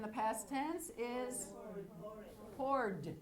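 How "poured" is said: "poured" as one syllable, like pord; rhyming with Ford. Shown as a demonstration. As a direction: say "poured" to rhyme exactly with Ford. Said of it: "It rhymes with Ford".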